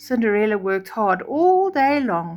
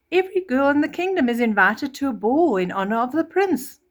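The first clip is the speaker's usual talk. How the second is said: higher, louder proclamation; stepmother announcing; 5 semitones higher, 4 dB louder than usual. Acted. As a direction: announce it grandly. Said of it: "stepmother announced".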